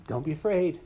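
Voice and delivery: bright heralding call; joyful announcement. Acted. Angels announcing at Christmas.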